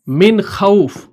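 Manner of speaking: slow "मिन खौफ" with the n fully sounded; "मिन खौफ", drawn out with an audible n; clear noon. Shown as a demonstration. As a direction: pronounce the n of "मिन" distinctly before "खौफ". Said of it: "हमने नून को जाहिर किया".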